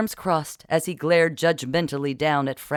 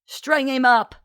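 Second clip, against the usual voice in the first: high, rabble-rousing call; high-pitched mob incitement; goading; 11 semitones higher, 3 dB louder than usual. A narrator's reading. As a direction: goad the crowd on. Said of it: "Millicent goaded the others".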